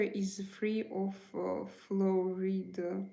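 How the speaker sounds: slow, halting before FLUORIDE; hesitate, then draw out the word "fluoride"; hesitant. Real, not acted. Streamer answering a viewer about the water, hesitant on fluoride.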